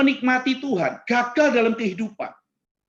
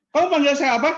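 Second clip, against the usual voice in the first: higher, indignant retort; acted anger; 6 semitones higher, 4 dB louder than usual. Offended congregant confronts the preacher who named him, acted anger. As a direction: act out taking sudden offence. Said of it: "Oh, dia marah gitu".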